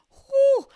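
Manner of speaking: high, loud whew to hold back tears; choked-up whew. Real, not acted. Podcaster fighting back tears at the holidays, choked-up whew. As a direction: let out a real high-pitched whew. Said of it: "I'm getting choked up a lot".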